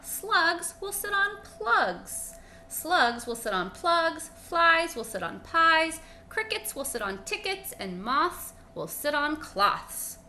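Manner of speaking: high, loud, slow rhyming list; gleeful frog. Acted. Frog naming silly rhymes to the dog, high and gleeful. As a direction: reel off silly rhymes with glee.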